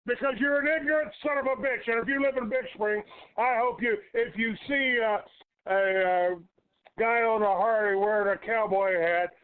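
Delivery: high, fast, heated tirade; angry rant. Real, not acted. Radio host threatening a rude caller before hanging up, angry rant. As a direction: tear into him at speed.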